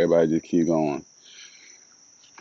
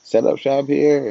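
much higher and louder tempted voice; 10 semitones higher, 6 dB louder than usual. Retold or imitated. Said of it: "I was like".

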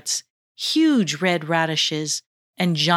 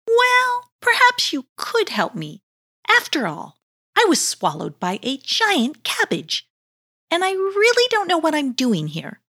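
tentative; 10 semitones higher than usual. Acted. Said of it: "replied Heichu somewhat tentatively".

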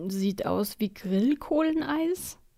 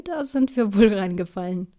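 grinning; 5 dB louder than usual. Acted. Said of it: "sagt Papa schließlich grinsend".

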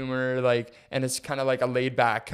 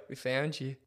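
softly imitated creepy Englishman; 8 dB quieter than usual. Pursuer popping over the stall, mock creepy English voice. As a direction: lightly put on a sinister English voice. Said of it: "in this creepy little English voice".

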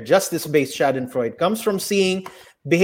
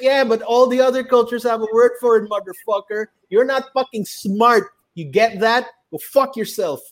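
mock scornful retort; 5 semitones higher than usual. Acted comeback to the know-it-all.

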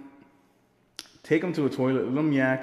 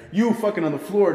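high, laughing cry; laughing disbelief; 8 semitones higher, 7 dB louder than usual. Retold or imitated. Walking into the shirtless room, laughing. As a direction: shout it while cracking up. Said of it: "I'm like".

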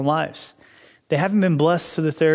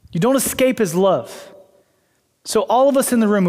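raised, insistent sermon delivery; emphatic preaching; 4 semitones higher than usual. Real, not acted. Preacher assuring the room you don't escape his love, emphatic preaching. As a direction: preach it higher, drawing out the key phrases. Preaching builds to its main point.

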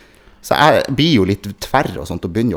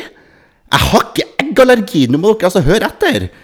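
frustrated protest; 12 semitones higher, 5 dB louder than usual. Retold or imitated. Arguing with vaccine nurses.

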